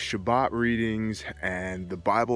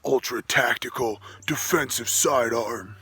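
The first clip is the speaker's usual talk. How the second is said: gun nut; 2 semitones higher than usual. Pretend. Listing gun specs, hushed and savoring.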